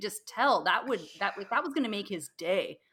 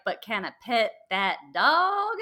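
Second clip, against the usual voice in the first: put-on kid's Southern twang; 5 dB louder than usual. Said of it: "He has quite a twang".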